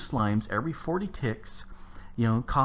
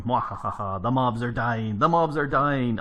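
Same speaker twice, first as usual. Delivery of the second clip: hammed-up villain gloat, building louder; evil gloating; 5 dB louder than usual. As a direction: cackle it out like a cartoon baddie. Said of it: "'cause, you know, I'm evil that way".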